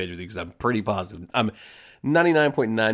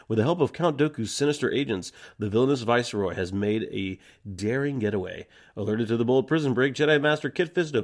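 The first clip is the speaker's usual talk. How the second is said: trailer narration; 2 semitones higher than usual. Acted. Podcast host reading the episode intro, announcer style. Reads episode opening crawl.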